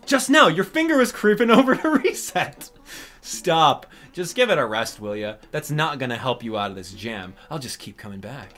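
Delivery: lightly voiced cranky mole, scolding and sarcastic; a hint of a grumpy mole lecturing; Mister Resetti voice. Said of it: "I do a very good Mister Resetti".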